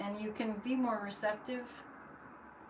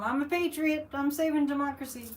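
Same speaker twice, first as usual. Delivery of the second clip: higher-pitched proud declaration; retold declaration; 4 semitones higher, 4 dB louder than usual. Patriot telling dad why she must leave, proudly declaring. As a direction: announce it with lifted pitch.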